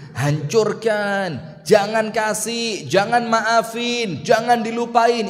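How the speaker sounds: slow, coaxing devilish whisper of revenge; a hint of Satan drawing it out; Satan tempting you, lightly voiced; devil's voice. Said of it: "Itu saya, setan".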